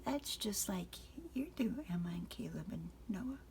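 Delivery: put-on a small child confiding at bedtime; little girl whisper. Frances whispering to Father in a small voice.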